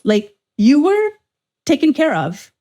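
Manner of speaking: mock sweet voice. Mocking friend's easy life.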